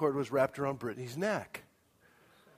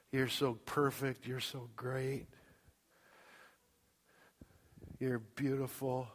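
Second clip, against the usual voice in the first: tender to newborn; 2 semitones lower, 4 dB quieter than usual. Acted. Father speaking to newborn.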